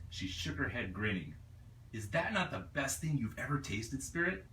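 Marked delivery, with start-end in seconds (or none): 1.9-4.5 Ania, lightly voiced and pleased with her treat; delighted Ania. Ania proudly offers Spirit her treat, lightly voiced delight. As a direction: share the treat proudly, rising on the name.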